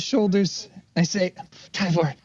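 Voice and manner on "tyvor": rising rage at the enemy; angry in-character speech. Acted.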